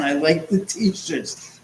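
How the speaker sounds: slow insistence. Real, not acted. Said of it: "No, I like the T-shirts again".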